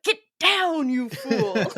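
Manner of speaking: a hint of Frederick's panicked command; family quoting Frederick. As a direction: toss it off like a family in-joke. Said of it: "we're like".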